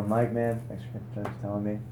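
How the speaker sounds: soft reassurance. Retold or imitated. Gracious lender voiced softly.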